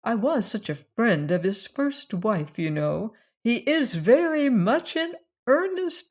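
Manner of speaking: a hint of a gossipy aunt; fussy old cousin. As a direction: coax her like a meddling old relative. Narrator voices Cousin Georgiana.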